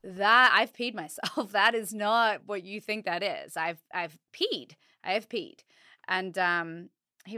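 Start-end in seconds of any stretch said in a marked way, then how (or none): 0.0-5.6 laughing quote. Retold or imitated. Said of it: "And I was like".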